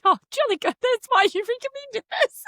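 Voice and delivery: high, mock-posh sarcasm; sarcastic jolly good. Mocking her cohost for recommending the episode, in sarcastic posh tone. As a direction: sneer it like a posh twit. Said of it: "I was like".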